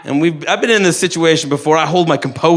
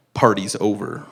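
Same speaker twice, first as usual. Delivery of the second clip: stomach voice; 7 semitones lower, 6 dB quieter than usual. Retold or imitated.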